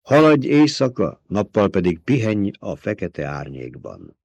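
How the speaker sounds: slow, measured recitation; solemn quotation. A narrator's reading. Paul quoting the Kitab al-Ibar to his mother, solemnly slow. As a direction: intone it like scripture. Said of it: "a Kitab al-Ibart idézve".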